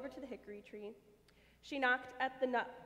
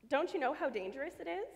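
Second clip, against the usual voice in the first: worried scolding; 4 semitones higher, 4 dB louder than usual. Acted.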